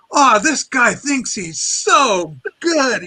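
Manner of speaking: slow, sneering jab at the singer; scornful mock. Retelling his own scorn for Steve Martin, slow and sneering. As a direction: drag it out with contempt. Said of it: "I go".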